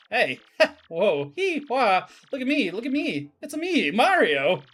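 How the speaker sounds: high, excitable cartoon exclamations; hammed-up, attention-seeking game hero; Mario. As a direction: show off with whoops and bouncy shouts. Acts out Mario showing off.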